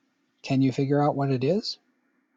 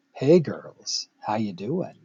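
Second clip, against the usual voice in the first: lightly hammed-up smooth pickup line; smooth player voice; slower than usual. A player chatting up a group of girls, mock smooth. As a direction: slide into a slick, lowered how you doing. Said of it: "that smooth voice".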